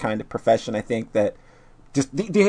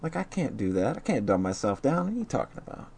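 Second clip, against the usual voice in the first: mock snob; 11 dB quieter than usual. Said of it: "It's like".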